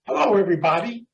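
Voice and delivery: put-on high, lilting European accent; foreign accent. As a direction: imitate a teacher's European accent. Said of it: "He had an accent".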